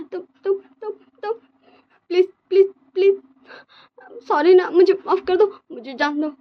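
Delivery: high, crying, frightened begging; a terrified boy begging for mercy; scared pleading. Acted. Scared boy begs the rich man, crying and high. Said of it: "विंग ऐसे बहुत ज़्यादा डर जाता है".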